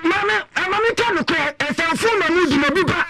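high pleading call to the mother. Acted. Speaker pleads with the mother to admit the truth, high pleading voice.

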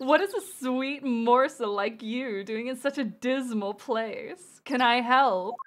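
lightly flamboyant charmer; smooth flirt with a flourish. Acted. Game character offering a lady help in a dismal place, flamboyant. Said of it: "a flamboyant voice".

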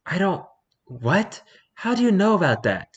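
high, indignant gremlin outburst; flustered gremlin, pitch shooting up; chaotic gremlin voice. Acted. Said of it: "I'm gonna give him the chaotic gremlin voice".

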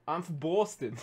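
an attempt at a Boston accent; amateur Boston accent on request. Shown as a demonstration. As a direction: try out a mild Boston accent. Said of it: "give us your best Boston accent".

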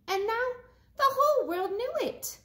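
joyful climax; triumphant. Acted. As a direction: end big and proud. Triumphant ending.

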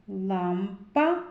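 "Лампа" split before "па", with the П punched; П singled out. Shown as a demonstration. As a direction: pause briefly, then pop the P in "Лампа". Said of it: "Зробимо звуковий аналіз слова".

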